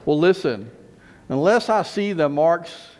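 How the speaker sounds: firm, forceful insistence, slowing down; emphatic. Acted. Thomas answering the other disciples, emphatic. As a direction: insist on it, leaning on the key words. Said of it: "rather emphatically".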